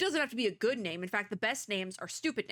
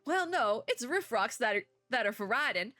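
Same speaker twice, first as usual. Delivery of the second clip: bad Southern accent. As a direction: read it as a folksy Southerner, badly. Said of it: "the really bad Southern accent".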